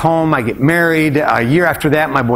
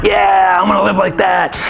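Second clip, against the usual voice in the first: high, mock-fervent cheer; hammed-up eager cry; gung-ho enthusiasm; 6 semitones higher than usual. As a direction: re-enact naive excitement at a wild idea. Acts his younger gung-ho self.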